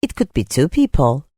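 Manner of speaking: unhurried meditation guide, long pauses between phrases; guided meditation. Real, not acted. Teacher leading listeners through a breathing practice, guided meditation. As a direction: guide them gently through breath and imagery.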